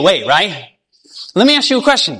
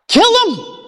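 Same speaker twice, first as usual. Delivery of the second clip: kill soaring much higher, mock outraged; incredulous question; 12 semitones higher than usual. Listeners wondering about Lucifer, kill soaring high. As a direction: fling out the KILL in disbelief.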